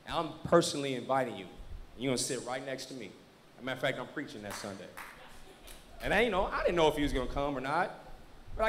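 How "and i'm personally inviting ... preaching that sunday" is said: low, soft pastoral invitation; quietly earnest, pitched down; sincere invitation. Retold or imitated. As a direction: quote a gentle, personal invite. Retold personal invitation to church.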